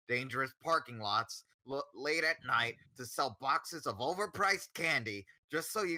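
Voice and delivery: a lightly voiced pompous principal speech; Principal Pixie Frog. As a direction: orate it like a long-winded school principal. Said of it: "you have to do it in Principal Pixie Frog's voice".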